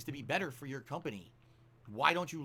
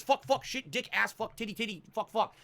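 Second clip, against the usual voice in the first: cursing sailor; 6 semitones higher, slower than usual. Retold or imitated. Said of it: "talk like fucking sailors".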